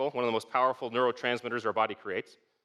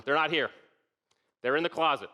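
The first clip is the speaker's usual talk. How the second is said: irritated call; 3 semitones higher than usual. Retold or imitated. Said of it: "Now I'm kind of mad".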